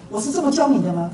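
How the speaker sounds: acted-out master's challenge; mildly indignant teacher's question; reproachful questioning. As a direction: challenge the pupil as his teacher. 师父责问徒弟背错.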